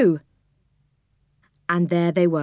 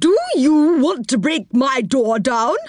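put-on cross old woman crying out; 6 semitones higher than usual. A narrator's reading. Old woman to Moonface at her door, crabby cry. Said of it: "she cried".

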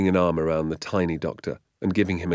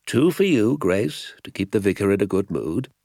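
higher, emphatic doctor's voice; delighted village doctor; 4 semitones higher, 6 dB louder than usual. A narrator's reading. Doctor sharing pheasants among friends, delighted. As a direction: hand out the gifts with delight.

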